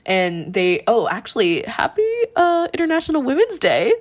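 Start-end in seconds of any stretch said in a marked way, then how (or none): 1.6-3.9 high, fast singsong greeting; excited greeting. Real, not acted. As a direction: sing out the holiday wishes. Sudden holiday greeting.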